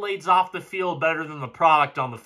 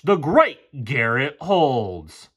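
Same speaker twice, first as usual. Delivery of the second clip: mock grandeur; 3 semitones lower, much slower than usual. Real, not acted. Mocking the player's name.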